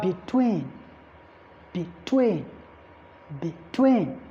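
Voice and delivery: "between" with short be, stressed TWEEN; stress on second syllable. Shown as a demonstration. Teacher giving an example, TWEEN stressed in "between". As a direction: lean on TWEEN in "between" each time. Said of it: "stress is always on the second syllable".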